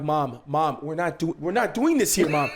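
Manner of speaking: retold embarrassed plea, pitch climbing; pleading protest. Son retells pleading with scolding mom.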